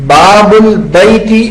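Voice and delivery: babu albaiti, sounding the hamza of البیتی; slow wrong reading of باب البیتی with the hamza sounded. Shown as a demonstration. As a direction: demonstrate the mistake of saying البیتی with its hamza. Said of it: "باب البیتی پڑھنا غلط ہوگا".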